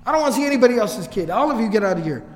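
mildly angry mock dismissal; imitated anger. Fortune teller clearing out the other clients, mock angry and upset. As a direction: retell an upset man sending everyone away. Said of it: "He gets very angry and very upset".

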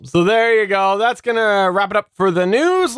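ordinary talk

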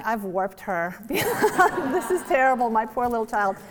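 laughing, hammed-up dismay; mock horror. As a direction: play up the guilty mother's horror, laughing. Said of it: "I'm looking at my little girl thinking".

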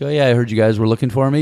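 quick, light mock innocence; playing dumb. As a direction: breezily pretend you know nothing. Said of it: "you know, playing dumb".

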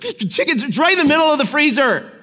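exasperated parent. Pretend. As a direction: spell it out, fed up with the kid. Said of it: "And you're like".

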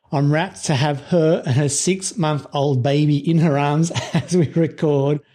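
chuckling through the words; laughing. Real, not acted. Host laughs introducing mother and baby.

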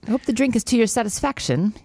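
badly faked British accent. British man at the bar offering a drink, bad British accent. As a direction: attempt a polite Englishman's British accent. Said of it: "A British accent".

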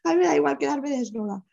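high, urgent, overwhelmed; desperate agitated plea. Retold or imitated. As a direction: beg to be freed from the cables, high and pressing.

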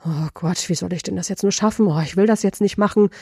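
fast, worried mock panic; anxious inner voice. Coach voicing a nervous presenter's inner panic, fast and worried. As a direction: rush the fretting like stage fright. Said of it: "Oder ist es vielleicht eher so".

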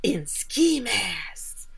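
slow, drawn-out imitation of Lenny testifying; mock-dramatic drawl, stretching the words; retold witness account. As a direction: draw it out as a put-on witness.

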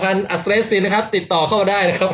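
a hint of TV-advert patter; mock sales pitch. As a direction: sell it like a joke ad. Jokes as a product advert.

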